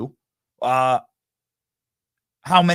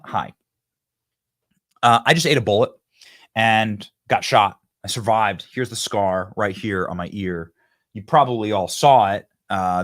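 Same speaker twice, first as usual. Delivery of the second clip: mock debate opener; 4 semitones lower than usual. Shown as a demonstration. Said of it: "You start the debate by saying".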